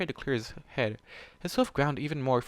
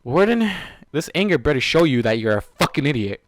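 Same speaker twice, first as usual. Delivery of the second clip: angry outburst; 2 semitones higher, 9 dB louder than usual. Real, not acted. Reader yelling at Warden, a real loud outburst. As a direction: yell it at the character.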